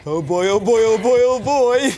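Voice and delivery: excited frog. Acted. Frog excited about kiss.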